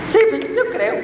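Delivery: half-hearted demo of a believer's cry; grito a medias. Shown as a demonstration. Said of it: "¿Será que así grita el hermano?". (grito poco convencido)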